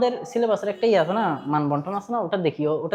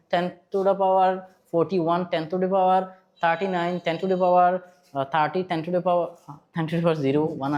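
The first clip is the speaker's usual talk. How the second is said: slow recitation; much slower than usual. Shown as a demonstration. Reciting mnemonic powers list.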